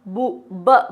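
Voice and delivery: बु cut back to ब, "buh"; teacherly first-sound demo, बु then ब; sounding out onset. Shown as a demonstration. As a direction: break off बु and isolate the b sound in ब. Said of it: "ब की sound पहले आ रही है".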